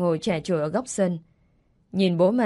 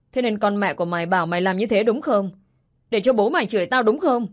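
scolding stepmother. Acted. Stepmother scolding the little girl, mild anger. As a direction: snap at the child, hammed-up anger. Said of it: "rồi nói".

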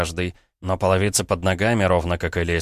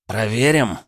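baring his teeth; 4 semitones higher than usual. Acted. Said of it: "зло ощерился он".

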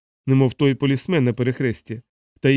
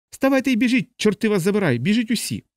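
1 frantic shout; 9 semitones higher than usual. A narrator's reading. Patient urging all to flee.

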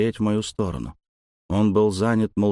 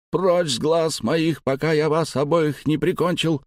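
furious threat; 7 semitones higher than usual. Acted. The old man threatens both lads, higher and seething. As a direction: threaten to kill them, seething.

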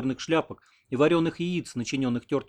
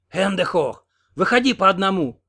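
partisan command; 7 semitones higher, 7 dB louder than usual. A narrator's reading. Old partisan aims rifle.

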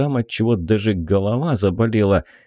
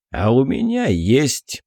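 breathy hiss through teeth; 4 semitones higher than usual. Acted. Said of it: "Архиупырь снова оскалился".

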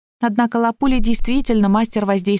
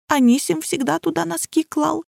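sniffling; 7 semitones higher than usual. A narrator's reading. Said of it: "всхлипнула Лапуля".

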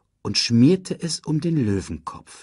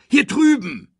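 loud, high bark; barked call; 7 dB louder than usual. A narrator's reading. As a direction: call out sharply to a friend. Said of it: "bellte er".

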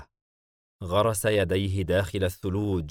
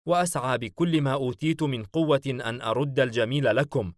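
higher, earnest voice of a devoted subordinate; loyal servant pledging devotion; 4 semitones higher, 3 dB louder than usual. Acted. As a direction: swear loyalty to your master, pitched up and insistent. (خادم مخلص يتعهد بالولاء)

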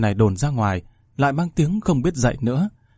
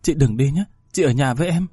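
tearful sister; 3 semitones higher than usual. Acted. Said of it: "ôm nhau khóc".

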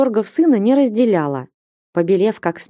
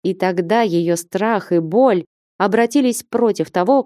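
ordinary delivery, nothing marked

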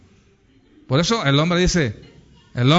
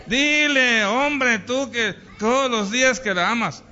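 higher, pleading nudge; insistent adviser; 5 semitones higher than usual. Acted. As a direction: coax a stubborn husband, pitched up. (consejero que insiste, en voz más aguda)

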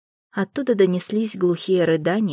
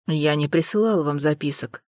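low, calm and controlled; 3 semitones lower than usual. Acted. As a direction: state it with cool composure. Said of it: "спокойно сообщил Алластер".

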